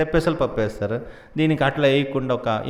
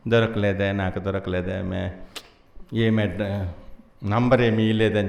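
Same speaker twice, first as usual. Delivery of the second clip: low, subdued moaning to himself; understated imitation of a lovesick sob; mock tearful lament; 7 semitones lower, 5 dB quieter than usual. Balaji lamenting under the blanket that he didn't find her, mock tearful. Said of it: "లోపల ఏడుస్తున్నాడు".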